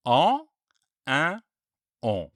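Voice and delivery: En, en, On contrasted one by one through the nose; three nasal vowels set apart clearly; French nasal vowels. Shown as a demonstration. Teacher contrasting the three nasal sounds for students. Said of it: "can you hear the difference".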